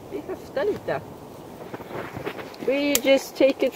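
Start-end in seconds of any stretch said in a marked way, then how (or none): 0.1-1.0 spoken in native Swedish. Shown as a demonstration. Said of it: "as we say in Sweden".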